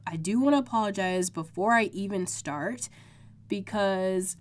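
stuffy, congested voice. Real, not acted. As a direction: talk through a blocked nose. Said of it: "can hear it in my voice".

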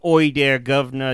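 a lightly done, bad Cockney accent; mock Cockney greeting from a fake British street performer; cliche Cockney accent. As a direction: toss off a half-hearted Cockney "Oi there, governor". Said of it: "saying the cliche Cockney things".

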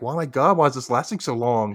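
appalled, pleading protest; exasperated. Retold or imitated. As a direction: wail it in dismay at how long it drags. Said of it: "I'm like".

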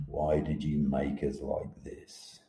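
slow, quiet plea to the sky; statue's lament. Acted. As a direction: ask the heavens slowly and softly, accusing. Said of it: "accusing finger at the sky".

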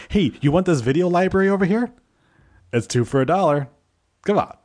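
high sing-song street vendor call; sing-song market hollering. Retold or imitated. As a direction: holler like a flea market seller. Hawking wares like market seller.

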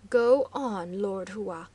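cool, challenging female voice; cold woman's voice. A narrator's reading. The woman coldly dares the chief to go on. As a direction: dare him to finish, icily. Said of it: "coldly spoke the woman".

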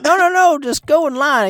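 an eager worker brushing off complaints; mock eager worker. Exit worker insisting it gets better, squeaky eager voice.

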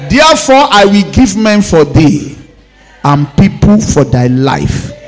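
shouted scripture line; preaching shout. Acted. Pastor proclaiming Isaiah to church, shouting. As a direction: proclaim it with force.

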